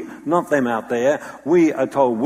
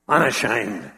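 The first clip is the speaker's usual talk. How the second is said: chin out, declaring it proudly; proud Paul; slower than usual. Retold or imitated. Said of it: "bark out the words".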